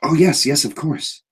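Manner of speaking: put-on a big man gushing like a child; odd overjoyed guard greeting a friend; eager childlike Anton. GM voices Anton.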